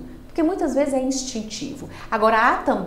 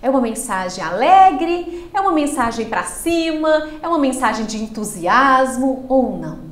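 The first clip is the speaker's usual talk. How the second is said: bright lifted voice, louder and up; upbeat demo; 3 semitones higher, 5 dB louder than usual. Shown as a demonstration. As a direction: show joy and enthusiasm in the voice. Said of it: "vocês percebem que eu não mudo apenas o tom da minha voz".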